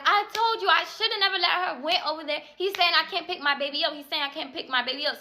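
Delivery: high, pained wail; upset crying. Retold or imitated. Mother told she can't pick up her baby, crying high. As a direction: cry it out in disbelief. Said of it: "And I'm like".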